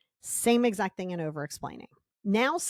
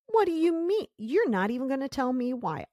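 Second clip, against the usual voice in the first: indignant; 5 semitones higher than usual. Retold or imitated. Person denied an explanation, indignant and demanding. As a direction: act wounded and push for reasons.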